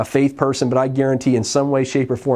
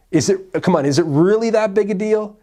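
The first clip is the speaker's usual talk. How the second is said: incredulous plea; 6 semitones higher than usual. Retold or imitated. Disciples pressing Jesus.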